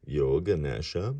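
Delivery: a touch of amazement; mild surprise. Acted. Old man learning who he is, mildly surprised. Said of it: "the old man exclaimed".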